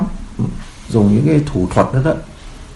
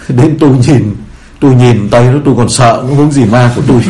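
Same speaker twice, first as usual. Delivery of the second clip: slightly raised, emphatic quoted reply; mild comic protest; 4 dB louder than usual. Acted. Ghost keeper explaining his fear of the Frenchman, mild comic protest. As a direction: lightly act out an exasperated excuse.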